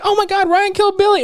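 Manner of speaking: high, excited mock gasp of a townsperson; mock shocked townsfolk. Podcast host mimics townsfolk, mock shocked and high. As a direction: play the shocked crowd for laughs.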